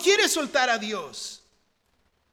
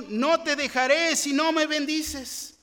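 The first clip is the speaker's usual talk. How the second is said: "No te dejaré si no me bendices" pitched higher and louder, peaking on "me"; Jacob's vow proclaimed louder and higher; louder, higher reading; 4 semitones higher, 4 dB louder than usual. Acted. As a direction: raise it up, urgent and ringing. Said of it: "Y Jacob le respondió".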